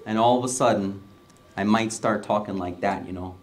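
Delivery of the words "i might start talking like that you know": lightly put-on Wisconsin accent. Shown as a demonstration. Pastor joking about talking to hometown folks, Wisconsin accent. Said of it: "I'm from Wisconsin".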